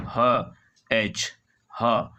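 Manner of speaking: ह, एच stretched out very slowly; slow, drawn-out ह, एच; slow letter demo. Shown as a demonstration. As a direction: draw out ह and एच for the class. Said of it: "ह का उच्चारण".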